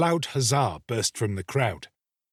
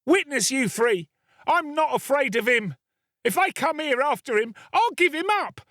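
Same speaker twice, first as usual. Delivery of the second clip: put-on a boy raising the alarm at the top of his voice; more and more excited; 13 semitones higher than usual. Boy rouses the house against the murderer, frantic shouting. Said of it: "becoming more and more excited as he spoke".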